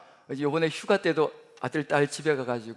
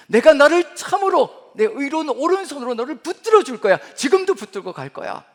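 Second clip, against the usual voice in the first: fervent preaching; 8 semitones higher, 10 dB louder than usual. Acted. Pastor voicing God's promise to the church, loud impassioned. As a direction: preach the promise with full force.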